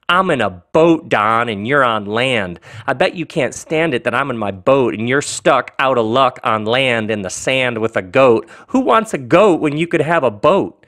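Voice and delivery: lightly hammed-up taunt with lifted openings; gloating. Ron taunts Don stuck on land, gloating story voice. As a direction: rub it in, playfully boastful. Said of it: "gloat and say".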